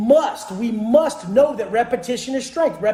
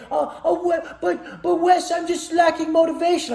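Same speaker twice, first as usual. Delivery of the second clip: higher-pitched, stammering imitation of a follower; mock someone faltering through an excuse; excuse-making follower; 5 semitones higher than usual.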